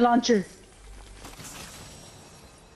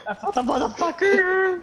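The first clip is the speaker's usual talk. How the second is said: high, laughing Harley Quinn-like glee; manic laughing; 9 semitones higher than usual. Real, not acted. Player gloating over finding an enemy, manic laughing. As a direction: cackle through the words, pitched way up. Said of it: "Harley Quinn".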